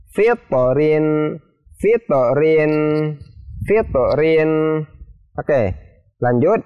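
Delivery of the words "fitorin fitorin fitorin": "Fitorin" with t bounced into a short o; spring off the t in "Fitorin"; qalqalah bounce. Shown as a demonstration. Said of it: "maka dipantulkan".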